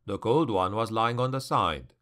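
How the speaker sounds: ordinary delivery, nothing marked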